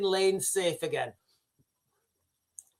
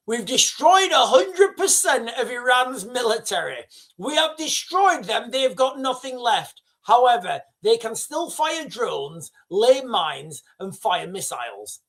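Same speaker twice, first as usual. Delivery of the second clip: mocking Trump; 2 semitones higher than usual. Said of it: "what, you know".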